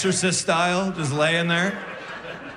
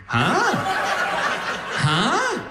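high startled huh; mock bewildered double take; baffled huh; 10 semitones higher than usual. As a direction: squeak it in confusion. His baffled reaction.

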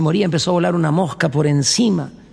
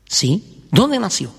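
landlady voice; 5 semitones lower, slower than usual. Acted. Landlady answers.

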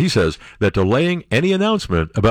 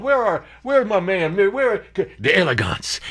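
calling out; 10 semitones higher than usual. Acted. Host calls out for McConnell.

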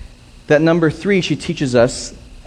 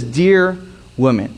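gentle address; 4 semitones lower, slower than usual. Retold or imitated. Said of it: "He doesn't say mother".

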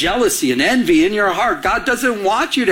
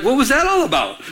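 raised, higher-pitched jealous challenge; kıskanç hesap sorma; 6 semitones higher than usual. Retold or imitated. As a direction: confront her, retelling the argument. Acted confrontation with his wife.

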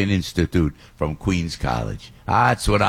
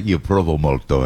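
Italian phrase; 7 semitones lower than usual. Shown as a demonstration. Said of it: "as we say".

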